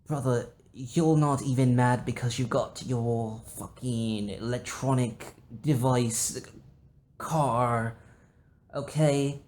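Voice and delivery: slow, lightly voiced hurt sister; mock-wounded sister. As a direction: complain with theatrical pain. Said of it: "It's just like".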